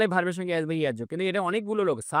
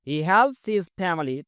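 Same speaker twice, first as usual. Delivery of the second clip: very slow, word by word; spaced-out classroom read; slow model reading; much slower than usual. Shown as a demonstration. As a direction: dictate each English word slowly for learners. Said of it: "slow model sentence".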